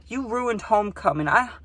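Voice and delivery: high, hurt mock girl voice; girl scolding her guest, mocked in a high voice; imitating upset girl. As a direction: play the wounded hostess, high and whiny. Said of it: "she was so mad".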